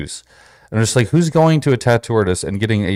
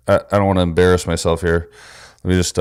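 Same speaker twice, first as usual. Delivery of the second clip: ordinary talk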